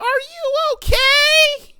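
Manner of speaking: put-on very high small-child voice, okay drawn out. Describing a child greeting a soaked rider off a ride, in a high-pitched little kid voice. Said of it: "some little kid, high pitched voice".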